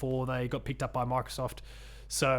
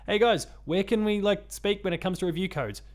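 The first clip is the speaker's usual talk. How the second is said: higher, friendly acted-out query; hopeful request; 5 semitones higher than usual. Host retelling his message to a games site, higher hopeful asking. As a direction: pitch it up like hailing someone online.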